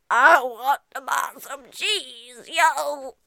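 slow laid-back customer voice with yo; cool customer voice. Acted. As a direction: drawl it like a cool guy. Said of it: "That's what he sounded like".

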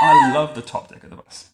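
high, loud squeal of delight; excited squeal. Pretend. Dad squealing like Peppa over the bus top deck, high and loud. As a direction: shriek it like a thrilled child. Father echoes child's excitement.

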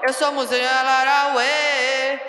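giddy from no sleep; delirious and overtired; sleep deprived. Real, not acted. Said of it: "A Moji já tá delirando de sono".

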